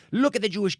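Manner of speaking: high ranting yell, retold; imitated screaming. Traveler imitating the man who keeps doing it, high yell. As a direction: yell like the airport ranter. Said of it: "he keeps doing it".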